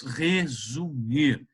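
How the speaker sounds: resumir stretched out very slowly; drawn-out word. Shown as a demonstration. Teacher stressing a key tip to the class, slow and drawn out. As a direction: draw out resumir to make it stick.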